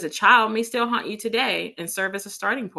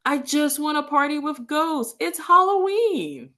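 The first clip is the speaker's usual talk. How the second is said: excited; 9 semitones higher than usual. Acted. Party-loving character in quote.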